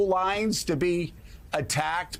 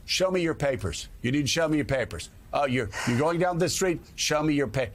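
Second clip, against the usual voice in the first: stern official demand; 3 semitones lower than usual. Retold or imitated. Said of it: "what does that sound like?".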